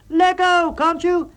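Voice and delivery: high, loud irritated demand; loud, high frustrated yell; angry shout. A narrator's reading. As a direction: shout at him to let go. Tent-pitching quarrel.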